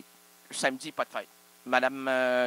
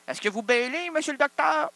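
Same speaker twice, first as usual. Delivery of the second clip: mock interviewer; 9 semitones higher, 5 dB louder than usual.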